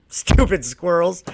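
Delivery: slow, drawn-out scorn on squirrels; mock scorn. Mocking squirrels, slow scornful sneer. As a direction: sneer it slowly. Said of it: "I'm gonna make a bunch of comments".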